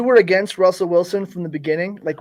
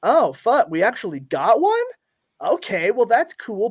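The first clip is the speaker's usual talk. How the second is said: retold pleasant surprise, pitched up; mock surprise; 5 semitones higher than usual. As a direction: act out a caught-off-guard fan reaction. Acts out fans' surprised reaction.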